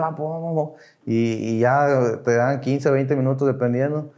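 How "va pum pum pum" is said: higher, soft mock babble; imitated venting outburst. Retelling his crying turn at the tribuna, mock outburst noises. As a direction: mimic an unstoppable outpouring under your voice. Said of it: "y llore, y llore".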